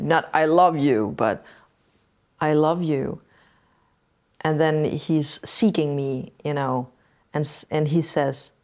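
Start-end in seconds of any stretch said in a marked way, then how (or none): 2.4-3.2 heartfelt. Shown as a demonstration. Showing how she says it to her son, heartfelt. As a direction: send the love with your voice. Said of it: "I do this with my energy".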